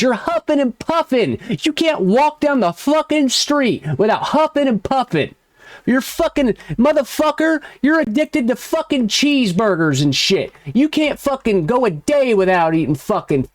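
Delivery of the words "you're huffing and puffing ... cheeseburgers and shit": higher, laughing ridicule; mocking laugh. Real, not acted. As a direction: laugh at him while you insult him. Mocking rival's breathing.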